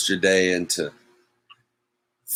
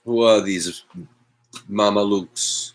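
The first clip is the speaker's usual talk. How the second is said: mock Italian accent. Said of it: "I'm not really Italian".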